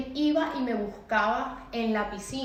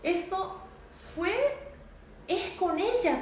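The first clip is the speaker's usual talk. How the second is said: remembered fear, said under the breath; frightened inner thought; 7 semitones higher than usual. Retold or imitated. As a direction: murmur it to yourself in shock. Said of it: "Y yo decía".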